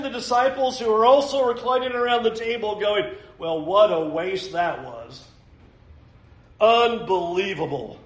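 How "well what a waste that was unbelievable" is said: indignant grumbling. Acted. Disciples reclining round the table, grumbling about the woman, mildly indignant. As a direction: grumble in mock disapproval. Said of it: "it says they were indignant".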